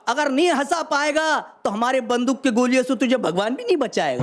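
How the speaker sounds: measured stage recital of humorous verse; phrase by phrase to an audience; comic poem recitation. Acted. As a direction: declaim it like a hasya kavi. Recites bandits' threatening letter.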